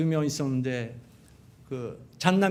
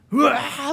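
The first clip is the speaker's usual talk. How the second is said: mock wail; 9 semitones higher, 4 dB louder, much slower than usual. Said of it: "울기 시작하니".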